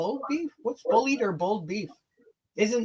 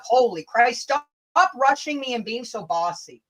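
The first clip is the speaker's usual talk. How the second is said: mock angry; 4 semitones higher, 3 dB louder than usual. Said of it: "Did that sound angry enough?".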